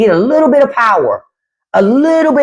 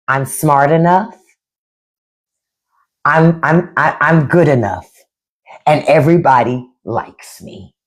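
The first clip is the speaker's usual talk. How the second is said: Pat impression; 7 semitones lower than usual. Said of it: "And, and Pat go".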